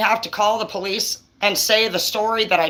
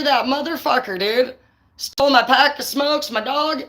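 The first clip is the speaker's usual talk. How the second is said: excited; 6 semitones higher, slower than usual. Real, not acted. Excited angry retelling.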